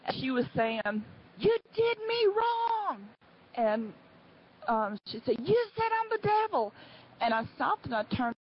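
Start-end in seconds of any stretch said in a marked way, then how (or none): 1.4-3.1 high, drawn-out mock yell; retold yelling. Angry woman yelling at me from behind, high mock yell. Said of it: "she started screaming and yelling at me". 5.4-6.7 high-pitched mock yell; retold yelling. Angry woman accusing me at Walmart, high mock yell. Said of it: "she started screaming and yelling at me".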